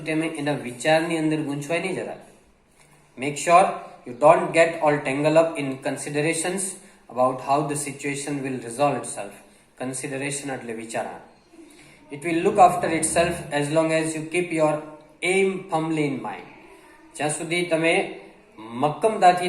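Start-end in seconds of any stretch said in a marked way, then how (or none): 3.2-9.3 reads the English line very slowly, word by word; slow dictation reading. Acted. Teacher reading a passage slowly to Gujarati learners. 12.1-16.5 reads the English line very slowly, word by word; slow dictation reading. Acted. Teacher reading a passage slowly to Gujarati learners.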